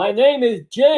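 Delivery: exasperated. Acted. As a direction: insist on it, fed up. Exasperated repeat of name correction.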